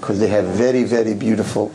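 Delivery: slow, hammed-up French accent; bad French accent. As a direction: put on an unconvincing French accent. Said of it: "my French accent is not French at all".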